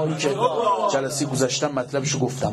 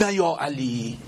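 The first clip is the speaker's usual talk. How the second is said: mildly higher, scornful taunt; sneering villain; 6 semitones higher than usual. Acted. Preacher retelling the villain's taunt, mild sneer. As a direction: taunt him lightly.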